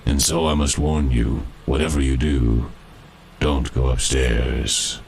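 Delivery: a skeleton warning the boys, lightly voiced; dead miner's ghost. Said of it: "and this is the story he told".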